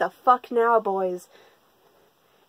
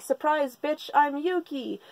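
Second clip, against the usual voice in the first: mock surprise reveal; 4 semitones higher than usual. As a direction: imitate a showy grand entrance. Retold cross-dressed reveal.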